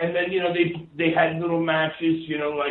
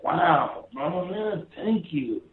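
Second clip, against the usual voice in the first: lightly voiced laid-back Hawaiian guy; a hint of a grateful island drawl; Jimmy Snuka's voice; 4 semitones higher, slower than usual. Thanking his visitor, a light Jimmy Snuka imitation. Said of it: "'cause that's how Jimmy talks".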